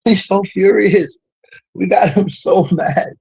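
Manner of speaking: high, slow gloating tease; taunting. Acted. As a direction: draw it out to rub it in. Taunting the opponent, laughing.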